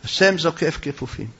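understated, composed reply; calm rejoinder. Acted. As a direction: drop down after her outburst and answer evenly. Joseph calmly answers the threat.

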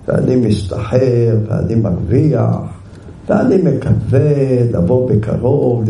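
slow, gentle reading of the letter; read nicely. Retold or imitated. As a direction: read it kindly, taking his time. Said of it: "קרא לה את זה יפה".

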